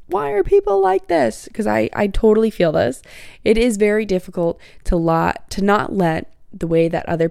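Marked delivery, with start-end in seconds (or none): 0.1-1.5 high, exasperated whine; squeaky fed-up complaint; mock exasperation. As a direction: throw up your hands at people.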